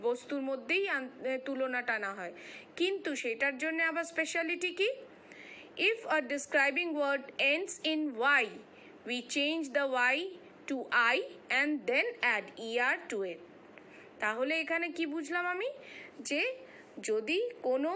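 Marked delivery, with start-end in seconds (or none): 5.9-13.4 slow, deliberate reading of the rule; measured classroom read-aloud; textbook reading. Acted.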